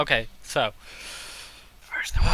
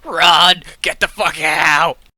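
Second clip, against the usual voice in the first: frantic, panicked, very loud screaming; 4 semitones higher, 12 dB louder than usual. Playing an elf dashing from one pillar to another, screaming. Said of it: "I'm just gonna be screaming".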